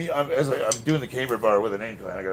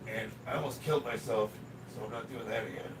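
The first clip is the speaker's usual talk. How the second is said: raspy, hoarse smoker's voice; smoker's rasp. Real, not acted. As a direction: rasp from a neck injury, hoarse. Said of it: "the reason I sound like I smoke twenty packs of cigarettes a day".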